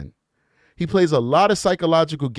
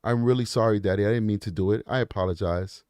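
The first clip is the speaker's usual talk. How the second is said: imitated sorry child; 8 semitones lower, 6 dB quieter than usual. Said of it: "He immediately snapped and was like".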